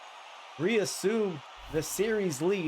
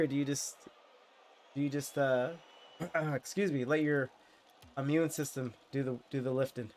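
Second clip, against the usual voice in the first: nasal voice; 6 semitones lower, 6 dB quieter than usual. Real, not acted. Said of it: "nasally ass voice".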